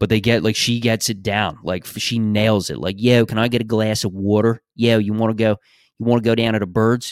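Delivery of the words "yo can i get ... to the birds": easy, everyday Philadelphia accent. Showing how someone nails the philly way of talking, philadelphia accent. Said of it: "That's more in line with what the Philly accent is".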